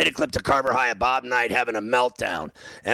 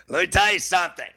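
retold temper; 7 semitones higher than usual. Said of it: "One night I lost my temper".

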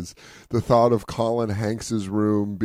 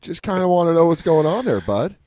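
Tom Hanks impression; 6 semitones higher than usual. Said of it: "he was like".

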